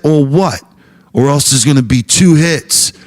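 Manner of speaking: loud challenging comeback; defiant. Retold or imitated. Comic daring the band member, loud defiant challenge. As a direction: dare him to go on. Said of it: "And I said".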